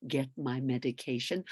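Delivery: retold director. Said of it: "when you went".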